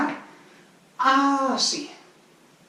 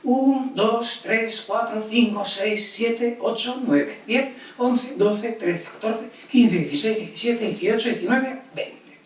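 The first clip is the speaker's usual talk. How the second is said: fast counting; slower than usual. Shown as a demonstration. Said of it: "vamos rápido".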